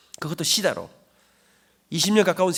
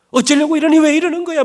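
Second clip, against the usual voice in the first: higher and louder, a mother's anguished plea; anguished pleading; 8 semitones higher, 9 dB louder than usual. Retold or imitated. Mother begging her son to stop, anguished plea. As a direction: cry out in worry for your son.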